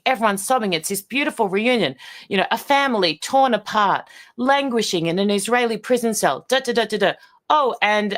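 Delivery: mock the syrupy TV reunion story; mock news voice-over. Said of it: "and they say".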